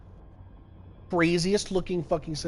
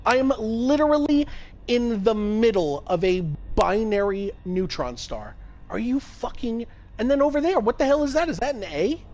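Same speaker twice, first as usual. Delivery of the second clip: high, louder, breathless excitement; excited awe; 7 semitones higher, 3 dB louder than usual. Real, not acted. Streamer describing the wild stars to chat, excited. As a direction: gush like you found treasure. Exploring binary neutron star.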